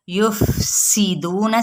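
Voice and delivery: یفسدون recited slowly with a thin sin; slow tajweed recitation. Shown as a demonstration. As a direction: stretch یفسدون gently, vowels kept short. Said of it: "سین کی زیر کو باریک کریں".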